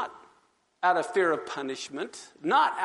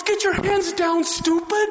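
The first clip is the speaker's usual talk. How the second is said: high, loud mock snarl with a laugh; retold gunman with a laugh breaking through; robber's order; 11 semitones higher, 5 dB louder, slower than usual. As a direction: snap it at him.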